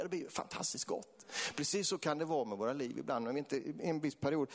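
normal talking voice

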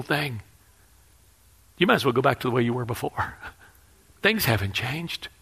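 a touch of quiet, mocking accuser; softly taunting him for failing; accusing inner voice. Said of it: "I heard this voice".

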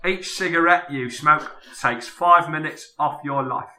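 lightly voiced Cockney actor; a touch of London film star; Michael Caine impression. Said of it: "can we just get you to do that one more time".

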